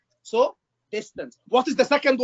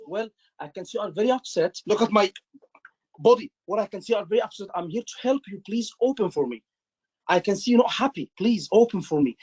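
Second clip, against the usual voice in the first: soft and caring; 3 semitones lower than usual. Shown as a demonstration. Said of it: "acknowledge in a nice way, in a soft way".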